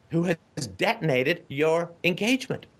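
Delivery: ordinary talk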